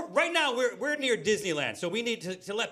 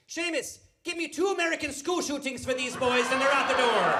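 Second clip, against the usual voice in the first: high-pitched landlady, building to a yell; old Irish barkeeper calling out; 7 semitones higher than usual. Acted. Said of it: "little old lady who runs the bar".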